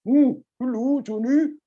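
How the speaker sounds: unsure, testing the greeting; uncertain. Shown as a demonstration. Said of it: "sounds a little bit uncertain".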